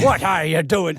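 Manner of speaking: mock teacher in a Cork lilt; Cork accent. Storyteller replaying the teacher's challenge, in a Cork accent. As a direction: put on a light Cork accent. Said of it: "I'm doing a Cork accent now".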